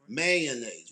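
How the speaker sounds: mayonnaise squeezed to man-naise; home-style mayonnaise; local pronunciation. Shown as a demonstration. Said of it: "We didn't say it like that".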